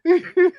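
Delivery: high burst of laughter. Real, not acted. Laughing at the friend's own joke, high squealing laugh.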